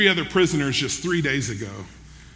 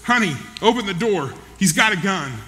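higher, moderately raised acted shout; imitating a man shouting for help; mild retold shout; 3 semitones higher than usual. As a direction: call out an urgent warning, without a full yell. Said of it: "And Nathan shouted".

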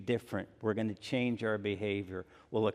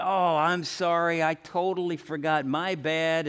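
offhand apology; 6 semitones higher, 4 dB louder than usual. Retold or imitated. Offhand apology for forgotten email.

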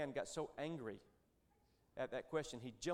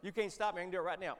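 smiling; 5 semitones higher, faster than usual. Retold or imitated. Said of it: "And I smiled and said".

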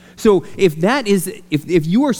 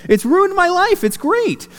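mock exasperation; 3 dB louder, slower than usual. Bob Goff quoted, joking about calls.

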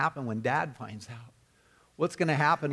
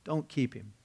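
softly retold begging. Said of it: "and he begged him, and he pleaded".

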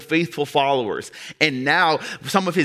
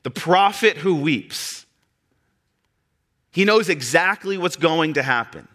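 impassioned preaching; 4 semitones higher than usual. Real, not acted. Preaching builds to forceful declaration.

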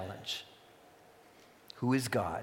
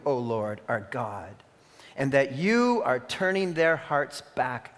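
prayer. Acted. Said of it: "stepped forward and prayed".

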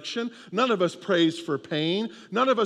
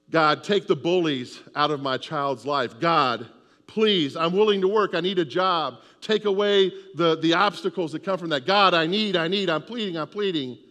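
desperate prayer; 3 dB louder than usual. Acted. Congregant's desperate prayer voiced.

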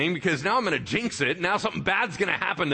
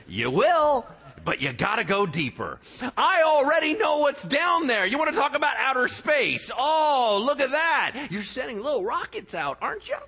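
God taunting humanity; 6 semitones higher than usual. Acted. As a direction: talk down to the humans with playful swagger. Preacher voices God addressing humans.

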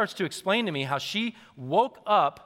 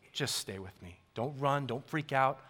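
softer, gentle voice of Jesus; tender reassurance; 4 semitones lower, 6 dB quieter than usual. Acted. Jesus comforting the afraid, soft and tender. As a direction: soothe a frightened listener.

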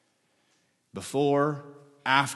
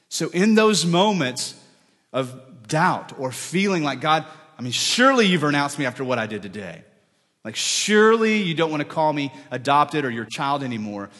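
anguished doubt; 3 semitones higher, 6 dB louder than usual. Retold or imitated.

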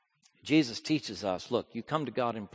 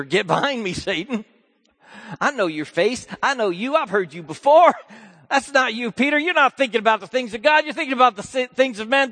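louder, higher firm rebuke; stern Jesus; 11 semitones higher, 12 dB louder than usual. Acted. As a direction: rebuke Peter with force. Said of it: "Jesus said to Peter".

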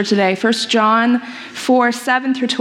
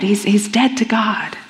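hushed whisper; 2 semitones lower than usual. Acted. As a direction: whisper it, heavy and final. Preacher repeats the verdict.

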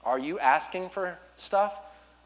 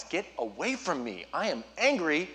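hammed-up grouchy refusal, slowing at the end; mock angry child; 3 semitones higher than usual. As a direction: pretend to be a cross kid fending off help. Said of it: "our reaction is the same as Wyatt's".

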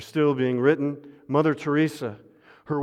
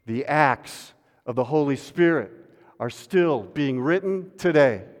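call to recite together. Shown as a demonstration. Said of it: "You want to say this with me?".

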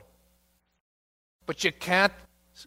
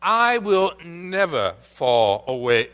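dogmatic boast; 3 dB louder, slower than usual. Retold or imitated. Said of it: "Notice his dogmatic absolutism".

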